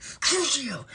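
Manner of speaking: high, sudden cry of incantation; spell cast. Acted. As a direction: hurl the curse with full theatrical force. Acting out practising a torture spell.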